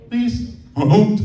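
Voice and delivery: high, slow, whimpering plea; mock pleading. Job candidate mock-begging the interviewer in a high slow whimper. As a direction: beg not to be yelled at, like a scared kid.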